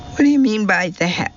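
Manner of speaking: put-on young northern woman bristling; abrasive northern challenge. A narrator's reading. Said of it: "the abrasive northern tone".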